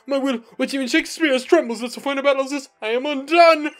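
grand, theatrical Shakespearean lord; Arthur voice. Acted. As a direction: declaim like a noble on stage. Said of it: "give him the Arthur voice".

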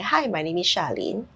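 low, lifeless hello; dull flat intro. Shown as a demonstration. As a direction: say it bored and low. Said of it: "you cannot be sitting down here".

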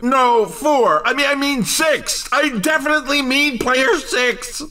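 hammed-up stumbling announcer backtrack; flustered self-correction. Announcer correcting his tip to Player Six, comically flustered. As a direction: scramble to fix the wrong pick.

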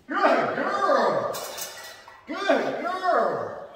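high sing-song dog praise; squeaky praising a dog. Real, not acted.

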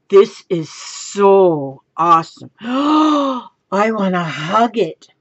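slow, stretched-out words with a gasp; overjoyed gushing. Real, not acted. Crafter wanting to hug her silk, slow overjoyed gushing. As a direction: savour it in real rapture.

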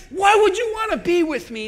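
loud, fast lament; quoting Naomi. Retold or imitated. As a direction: throw out Naomi's self-pitying question. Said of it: "She said".

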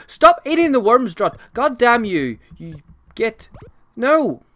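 loud, high frustrated shout at the spider; real exasperated yell. Real, not acted. Host yells at the spider eating his worms again, real exasperation. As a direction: scold the spider in real annoyance.

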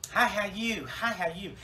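a hint of a chirpy hippie; lightly voiced happy greeter. Happy hippie greets everyone in heaven, lightly acted cheery voice.

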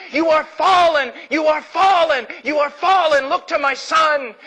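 repeated cry, each word hammered; God screaming. Acted. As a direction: call out like God pleading. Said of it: "It is God screaming to us".

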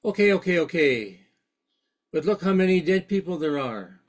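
a touch of exasperation, pitch jumping up on the first okay; mildly impatient, cutting her off; agitated interviewer. Retold or imitated. Journalist pressing Mother Teresa, mildly agitated. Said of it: "was getting a little kind of agitated".

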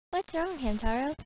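put-on a half-hearted French accent; not French accent. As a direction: fake French accent, lightly done. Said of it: "the not French accent for Bijou".

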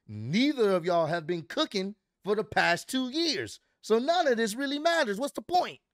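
imitating a rant that rises in pitch; heated challenge. Wrestler challenges both rivals at the table, retold heated rant.

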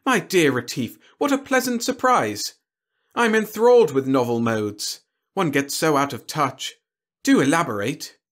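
high, loud enthusiastic aristocrat; delighted alien noble. A narrator's reading. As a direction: gush like a thrilled lord. Hoshik, delighted.

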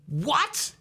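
high, squeaky put-on whine of disgust; mock disgusted. Beginner hearing their own recording, mock disgusted high whine.

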